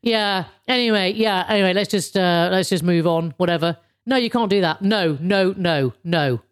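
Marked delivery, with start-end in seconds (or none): 0.0-3.8 mumbled, dismissive "whatever" apology; offhand brush-off. Acted. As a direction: brush it off without meaning it. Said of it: "You cannot just go".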